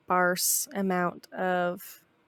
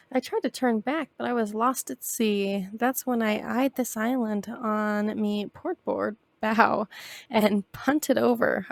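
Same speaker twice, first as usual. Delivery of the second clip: pirate voice; slower than usual. Acted. Reads pirate captain's lines.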